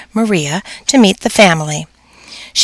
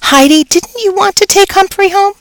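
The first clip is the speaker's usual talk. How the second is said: teacher voice; 13 semitones higher than usual. A narrator's reading. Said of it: "Missus Brisbane asked".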